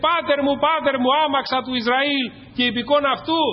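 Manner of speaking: high, impassioned quoted cry; preacher acting out an outcry. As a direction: call out urgently, pitched well above normal. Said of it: "άρχισε να φωνάζει".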